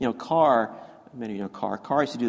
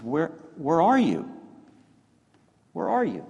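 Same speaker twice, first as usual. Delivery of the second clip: God calling out; 7 semitones higher than usual. Acted. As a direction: call out searching for them.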